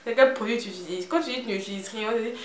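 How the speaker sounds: put-on loud, high pleading in an Ivorian accent; hammed-up Ivorian-accented begging, with a high whining hum. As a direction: wheedle for secrets like a pestering Ivorian friend. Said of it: "c'est avec l'accent ivoirien qui va avec".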